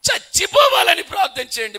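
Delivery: a high, loud cry of despair from the dying king; anguished shout. Retold or imitated. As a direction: shout the plea as a man begging to die. King begs pastor for death. (మరణం కోసం వేడుకుంటూ బిగ్గరగా అరుపు)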